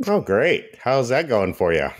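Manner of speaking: teasing interest. Real, not acted. Teasing cohost about watching kids show.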